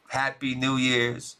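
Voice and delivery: slow, stretched-out New Year's wish; drawn-out greeting. Real, not acted. Vlogger signing off to viewers at year's end, slow drawn-out greeting. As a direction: draw out every word of the greeting. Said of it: "this is how I say".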